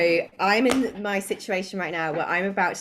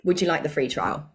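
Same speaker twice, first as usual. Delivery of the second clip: mock salesy pitch. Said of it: "'cause that's how I talk".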